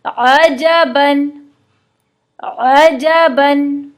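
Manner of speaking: अजबन with a soft throaty ain, very slow; soft Arabic ain. Shown as a demonstration. Teacher demonstrating soft ain, drawn out. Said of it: "आइन इंतहाई नरम हर्फ है".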